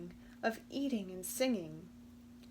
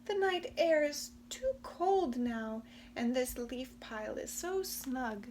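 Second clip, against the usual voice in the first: a touch higher, cosy refusal; snug crickets; 4 semitones higher than usual. Acted. The crickets refusing from their leaf pile, cosy. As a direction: sound happily tucked in.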